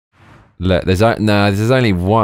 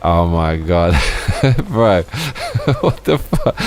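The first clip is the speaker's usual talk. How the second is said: laughing disbelief; 2 semitones higher, slower than usual. Real, not acted. Streamer reacting to a viewer's gross story, laughing in disbelief. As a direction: crack up, incredulous, between the words.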